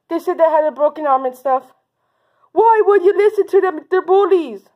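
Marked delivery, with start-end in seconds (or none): 2.5-4.6 higher, exasperated pretend reproach; mild scolding. Teacher to bully believers, exasperated scolding. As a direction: scold them in mock exasperation.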